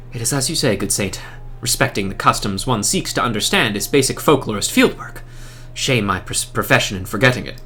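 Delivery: a low, quiet apologetic scholar; humble scholar. Acted. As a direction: mumble it as a humbled academic.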